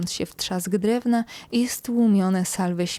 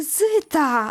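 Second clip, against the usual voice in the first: high shriek on the edge of crying; 6 semitones higher than usual. The narrator calls out to a member of her crew, screaming, near tears. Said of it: "Wrzasnęłam bliska płaczu".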